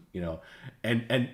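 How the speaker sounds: ordinary talk, nothing marked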